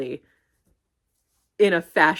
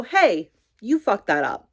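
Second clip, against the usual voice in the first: bluntly calling out a slip-up; blunt callout; 2 semitones higher, slower than usual. Acted. Coworker flagging the newcomer's mistake, blunt. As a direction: tell them straight they messed up. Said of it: "Obviously not like that".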